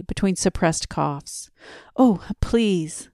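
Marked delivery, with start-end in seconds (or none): 2.0-3.1 eager plea, pitched a bit high; like an excited child. A narrator's reading. Young man begging the old man for music, excited. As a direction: beg for it like a child who can't wait. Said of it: "like an excited child".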